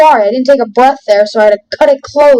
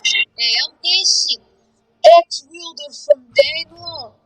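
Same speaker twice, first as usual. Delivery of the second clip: higher-pitched, badly faked Viking accent; attempted Viking accent; 5 semitones higher than usual. Gamer introducing himself as a Danelaw warrior, attempted Viking accent. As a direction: have a wobbly go at a Viking accent. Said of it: "how to do it in a Viking accent".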